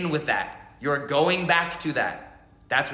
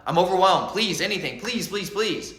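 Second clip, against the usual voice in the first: mild, hurried mock pleading; begging for mercy. Overwhelmed soul begging the mother for release, pleading. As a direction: plead in a run, piling up each please. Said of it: "You're begging the mother".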